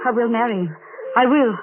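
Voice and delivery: a jealous sister's loud defiance; defiant outburst. Acted. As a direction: fling it back in defiance. Emily defies the ghost.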